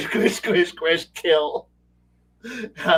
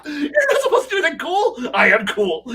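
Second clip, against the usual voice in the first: shouting between laughs; laughing shouts; laughing through it; 6 dB louder than usual. Real, not acted. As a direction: lines broken up by real laughter. Laughing while acting out the exchange.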